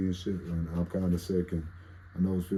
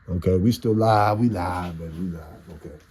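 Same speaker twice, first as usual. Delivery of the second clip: loud relieved cheer that we're still live; relieved excitement; 6 dB louder than usual. Real, not acted. Streamer relieved the recording survived, loud cheer. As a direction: celebrate the stream still running.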